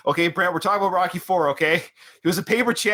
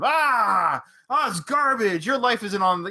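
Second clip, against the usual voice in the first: pitched-up scoffing brush-off; mocking dismissive media; 7 semitones higher, slower than usual. Mocking the media brushing off threats, scoffing and high. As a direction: wave it away as garbage, mock-dismissive. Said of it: "the media just, like, hogwashing them".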